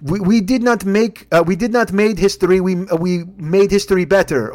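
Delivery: put-on lightly accented French model. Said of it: "He goes, like".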